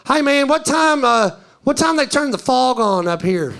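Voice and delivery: mock tourist calling up a question; imitated tourist. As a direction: ask it like an earnest tourist. Mimics tourist's earnest dumb question.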